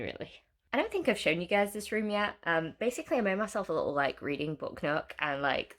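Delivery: blocked nose; stuffy nasal voice from a cold; nasally voice. Real, not acted. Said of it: "ignore my, like, nasally voice".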